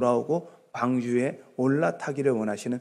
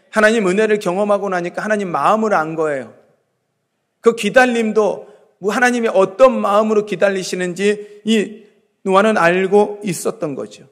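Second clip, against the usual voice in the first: raised, driving sermon voice; impassioned preaching; 5 semitones higher, 7 dB louder than usual. Real, not acted. Preacher telling how Noah built the ark on trust, impassioned. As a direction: press each phrase on the congregation.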